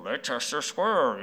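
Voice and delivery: put-on slow try at a cool British accent; unpolished British accent impression. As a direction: imitate a London tube announcer's British accent, slowly. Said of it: "they said in a cool British voice".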